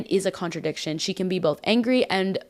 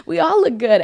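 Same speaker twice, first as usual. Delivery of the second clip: excited cheer; 8 semitones higher, 5 dB louder than usual. Retold or imitated. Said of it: "we're like".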